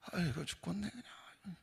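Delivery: whispered, feeble mock lament; groaning complaint. Habitual complainer sighing to self, whispered groan. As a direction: wheeze it out like a worn-out complainer.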